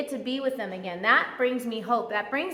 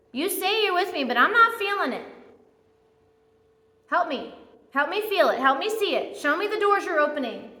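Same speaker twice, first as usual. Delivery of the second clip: pleading prayer; 5 semitones higher than usual. Pretend. Praying to God in struggle.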